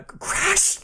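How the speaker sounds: high puzzled question; surprised. Real, not acted. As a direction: catch yourself, unsure. Mock confusion over game name.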